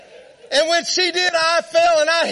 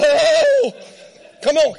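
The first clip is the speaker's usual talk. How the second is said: startled cry; slower than usual. Retold or imitated. Rider yelping as the horse sidesteps. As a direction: jump in pitch on the Oh. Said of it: "I'm like".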